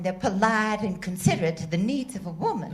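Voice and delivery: put-on Southern accent. Contestant flirts back at the quizmaster in Southern accent. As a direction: play the Southern belle lightly. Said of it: "With that accent".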